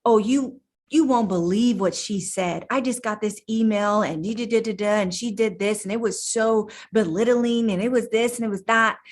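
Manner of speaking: lightly voiced gossiping complainer; a hint of a whiny coworker venting; mimicking a complainer. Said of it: "kind of sounds like this".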